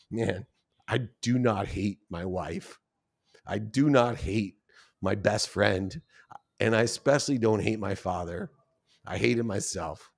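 hushed, understated self-reproach; choked-up realization. Retold or imitated. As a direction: quietly admit it to yourself. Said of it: "I still get choked up today".

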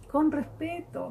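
con respeto lifted high and gentle; soft high echo of con respeto. Shown as a demonstration.

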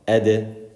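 "Ed" with a bouncing released d; qalqala bounce. Shown as a demonstration. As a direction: let the d of "Ed" spring open. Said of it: "We do qalqala when we stop on it".

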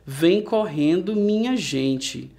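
measured recitation with pauses after each verse; poem reading. Acted. Teacher reading a monkey poem to pupils, measured recitation. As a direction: read it line by line like a children's poem.

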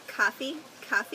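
"Coffee" with open ah, questioning; non-local vowel. Shown as a demonstration. Long Islander testing how everyone else says it, cahfee. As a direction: try "Coffee" as cahfee, rising. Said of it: "Everyone else says what?".

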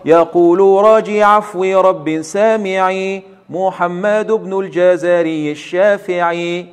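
slow, measured recitation of the verse; slow chant of the opening verse. Shown as a demonstration. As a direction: recite the line slowly, weighing each foot. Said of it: "يقول الناظم رحمه الله".

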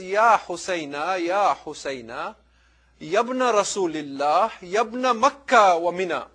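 slow, drawn-out cry of mourning; crying lament. Retold or imitated. Zainab crying for her brother, slow imitated lament. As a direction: imitate a grieving call, stretching the words. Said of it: "how does she cry for him".

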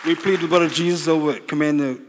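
high, loud prayer declaration; re-enacted prayer at full cry; commanding prayer. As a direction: call it out with forceful authority.

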